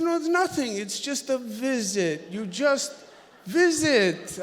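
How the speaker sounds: a hint of Clinton patiently insisting; imitating Bill Clinton. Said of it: "he said".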